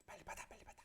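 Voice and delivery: unvoiced, urgent mock whisper; wordless urging. Mom signalling child to take the money, secret urging. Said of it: "말은 못하고".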